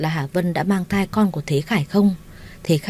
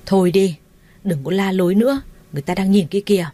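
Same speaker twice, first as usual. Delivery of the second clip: stern shout. Acted. Minh silences the hospital quarrel with a stern shout. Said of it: "ông Minh quát".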